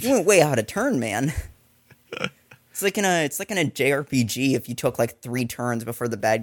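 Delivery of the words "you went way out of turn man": raised-pitch mock protest; indignant henchman. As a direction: complain like a henchman who's been cheated. Voicing outraged henchman watching Bond.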